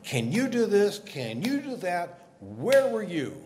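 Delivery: God berating a man, mildly hammed-up; laying into someone. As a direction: fire off demanding questions, drawn out. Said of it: "he lays into Job".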